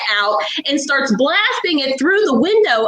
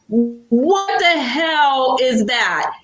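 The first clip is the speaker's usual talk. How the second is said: stunned disgust; much slower than usual. Retold or imitated. Feels something in her mouth.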